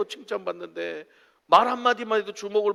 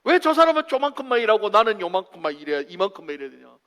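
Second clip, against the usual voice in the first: lightly hammed-up complainer; mock discontent; 2 semitones higher, 6 dB louder than usual. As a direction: grumble about unequal workloads. 그래서 늘 불만이야.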